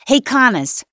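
high, loud call down the stairs. A narrator's reading. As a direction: shout for your partner from upstairs. Younger officer calls from upstairs.

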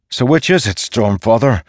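high, pressing challenge; demanding. A narrator's reading. Dalinar challenging the storm god's contradiction, demanding. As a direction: demand a straight answer. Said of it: "Dalinar demanded".

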